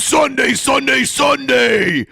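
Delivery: high mock yelling impression; mock ranting shout. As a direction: parrot the rant, hammed-up and high. Echoing the caller's rant mockingly.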